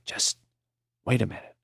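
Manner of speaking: weak whisper. A narrator's reading. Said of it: "Maury whispered".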